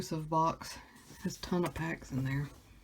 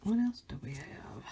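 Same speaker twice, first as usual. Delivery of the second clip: whispering; 4 dB quieter than usual. Real, not acted. Opening packs.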